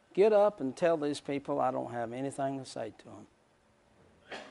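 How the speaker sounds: slow, soft and gentle voice of God; tender, unhurried telling-off; a mild, sweet hush of a divine voice. Retold or imitated. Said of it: "just a sweet tone".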